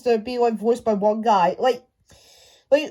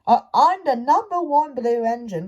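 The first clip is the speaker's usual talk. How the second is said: Thomas voice. Retold or imitated. Mimicking how Thomas talks in the show, proud put-on voice. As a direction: announce yourself proudly as the tank engine. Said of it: "Thomas talks, talks like this".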